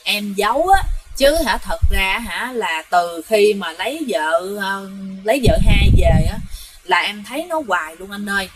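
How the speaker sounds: low and hushed, worn out; a hint of a sighing, fearful younger brother; weary sighing confession. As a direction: sigh it out like a tired man confessing. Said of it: "ngồi thở dài".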